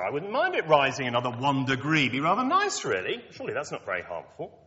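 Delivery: lightly voiced breezy doubter, shrugging it off; mock complacent sceptic. Preacher voicing a comfortable sceptic to the students, in a breezy mock tone. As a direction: play an easygoing skeptic, half-hearted. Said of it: "someone might say".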